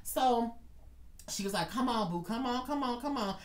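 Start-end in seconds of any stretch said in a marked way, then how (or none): 1.7-3.4 higher, gentle repeated urging; imitated coaxing. Gwen helping a crying worker downstairs, higher coaxing imitation. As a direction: coax someone along without raising the volume.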